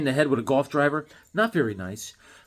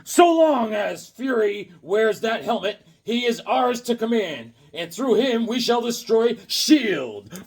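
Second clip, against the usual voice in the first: slow, menacing comic villain read, a touch higher; 4 semitones higher, slower than usual. Acted. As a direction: read it like a scheming supervillain. Reading villain dialogue from comic.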